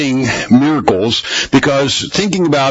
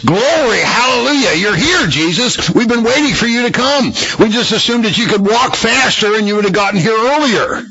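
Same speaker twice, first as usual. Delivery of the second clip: much higher, hammed-up jubilant praise; mock joyful welcome; 9 semitones higher than usual. Disciples mockingly greeting Jesus, high hammed-up glee. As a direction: play it as sarcastic overjoyed disciples. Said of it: "they took it like, you know, real men of God".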